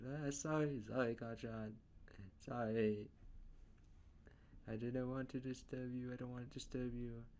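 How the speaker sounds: high, soft-natured apologetic voice; nice, timid personality, eager not to bother; Deku. Acted. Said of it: "to his more soft, nice, calm personality".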